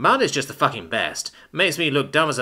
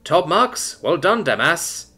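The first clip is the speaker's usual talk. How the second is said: slow, mock-cheering praise, dripping sarcasm; sarcastic; 6 semitones higher, slower than usual. Son mocking his father's forgetfulness, slow sarcastic praise. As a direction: applaud him like he's a genius when he isn't. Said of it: "Adam applauded sarcastically".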